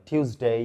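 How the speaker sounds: "টিউসডে" as "tyooz-day"; slow "টিউসডে" with a y-glide after T; accepted variant. Shown as a demonstration. Teacher approving a variant, "টিউসডে" carefully pronounced "tyooz-day". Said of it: "এটাও সঠিক".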